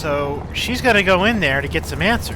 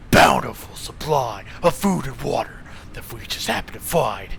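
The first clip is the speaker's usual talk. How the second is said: whisper; 4 semitones lower than usual. Acted. Secretive thug aside.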